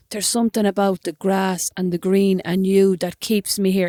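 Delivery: slow, lightly put-on Irish accent; imitated Irish accent. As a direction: quote it in a mild mock Irish accent. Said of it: "It's like the accent was not that good".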